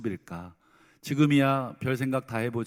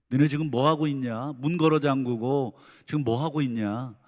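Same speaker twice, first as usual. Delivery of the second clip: louder, scolding questions thrown at the disciples; imagined rebuke; 2 semitones higher, 3 dB louder than usual. Retold or imitated. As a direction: play a harsh master berating hiding students. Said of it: "이렇게 책망하지". (제자들을 다그치는 가상의 책망, 크게)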